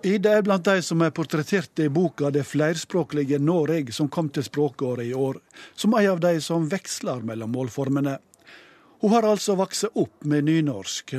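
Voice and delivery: measured radio reporter narration; scripted voice-over. A narrator's reading. Reporter introduces Ida to radio listeners, scripted voice-over. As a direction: read the report with lively, falling phrase tunes.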